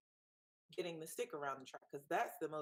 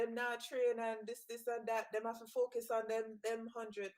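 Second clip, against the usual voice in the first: put-on Jamaican accent; 4 semitones higher than usual. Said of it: "I'm gonna start talking in my Jamaican accent".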